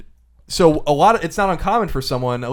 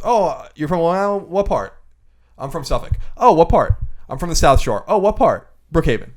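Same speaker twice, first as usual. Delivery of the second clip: acted-out back-and-forth with lifted questions; conversational cadence; 4 semitones higher, 4 dB louder than usual. Shown as a demonstration. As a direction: play both sides of a routine exchange. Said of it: "there's a whole cadence".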